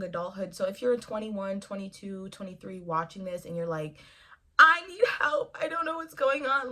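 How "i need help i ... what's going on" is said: high, loud panicked cry; Mister Krabs panic. Retold or imitated. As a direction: squeal it like a cartoon crab losing it. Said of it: "like Mister Krabs panic meme".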